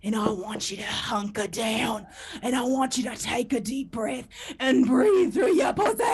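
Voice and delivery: mock Australian seducer building to a loud shout; imitated Australian man. Australian ASMR man repeating his breathing order, Australian accent rising to a mock shout. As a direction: start hushed, swell into an absurd Australian yell. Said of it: "But he said it again".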